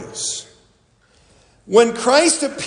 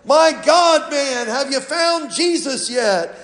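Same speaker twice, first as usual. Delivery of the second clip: impatient preacher, raised pitch; harsher tone; 4 semitones higher than usual. Retold or imitated. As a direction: snap it out, fed up. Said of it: "kind of with a harsher tone".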